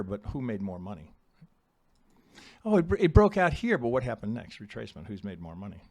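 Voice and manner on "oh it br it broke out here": higher-pitched imitation of an excited trader; mock eager objection. Trader objects about a breakout, mock eager and high. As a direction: voice the breakout fan, pitched well up.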